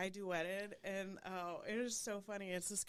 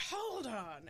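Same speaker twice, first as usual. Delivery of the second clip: imitated English accent; 3 semitones higher than usual. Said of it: "he's this English guy who's like".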